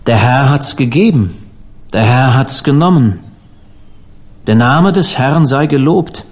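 measured, solemn declaration with growing firmness; powerful voice. A narrator's reading. Transformed Penn claims the man as preacher, firm solemn voice. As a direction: proclaim it like scripture, phrase by phrase. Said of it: "mit kraftvoller Stimme sagte er".

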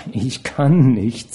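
slow anxious refusal; fearful. Acted. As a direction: say it slowly, afraid. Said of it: "blickte sie voller Angst an". (ängstlich, langsam)

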